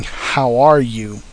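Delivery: slow flat machine-like voice with no inflection; mechanical voice. Shown as a demonstration. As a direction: say it like a processed, lifeless recording. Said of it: "kinda mechanicalize any voice".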